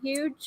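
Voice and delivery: "huge" with the H left off; soft "huge" opening on a Y sound; silent H. Shown as a demonstration. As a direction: drop the H, "huge" as "yooge". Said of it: "where the H is silent".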